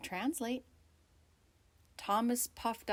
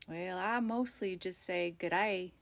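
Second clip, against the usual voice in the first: sleepy, yawning mumble; 3 semitones lower than usual. Acted. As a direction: talk through a yawn and a mouthful. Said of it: "yawning between mouthfuls".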